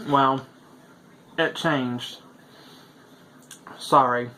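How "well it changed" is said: talking with mouth full. Real, not acted. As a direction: speak around a mouthful of food. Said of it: "I don't mean to eat with my mouth full".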